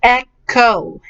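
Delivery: "Echo" in two parts, ek and oh; careful pronunciation. Shown as a demonstration. Teacher models the word echo, careful syllables. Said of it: "the word echo".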